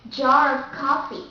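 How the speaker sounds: British jar of coffee, R linked to "of"; British accent. Shown as a demonstration. Teacher explaining R before a vowel, British accent. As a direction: pronounce the linking R, British style. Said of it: "we have to pronounce it like".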